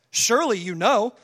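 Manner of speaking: lightly sarcastic, lifting at the end; understated taunt, left hanging; sarcastic God. Acted. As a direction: needle Job with a mock-questioning tone. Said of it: "Look at God getting sarcastic with Job".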